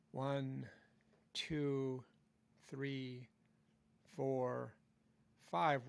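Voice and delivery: slow count spoken on an in-breath; talking while inhaling. Shown as a demonstration. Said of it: "So I'm going".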